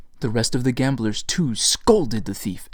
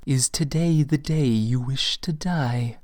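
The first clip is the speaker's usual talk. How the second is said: almost jesting; 2 semitones higher than usual. A narrator's reading. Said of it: "in an almost jesting tone".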